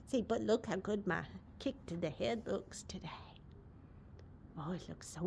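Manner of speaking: soft unvoiced whisper. Real, not acted. Owner near her dozing horse, whispering. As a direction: whisper so the horse can doze.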